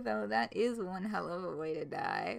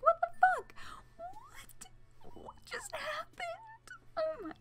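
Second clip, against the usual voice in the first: much higher, laughing-crying disbelief; retold shocked yelling; much slower than usual. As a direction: squeal it out in stunned disbelief, half sobbing with laughter. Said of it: "I was literally fucking yelling".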